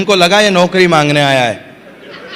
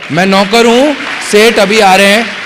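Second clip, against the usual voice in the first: playful mock servant; 2 semitones higher than usual. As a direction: announce it like a grinning servant. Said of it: "मैंने उसको बोला कि".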